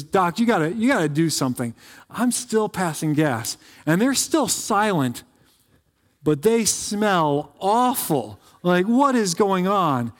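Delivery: a hint of a flustered old woman pleading; upset old lady.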